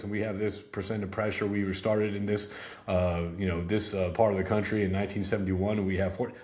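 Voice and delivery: low, flat droning slide reading; robotic monotone. Shown as a demonstration. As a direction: read it word for word like a bored robot. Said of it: "you start reading it like a robot".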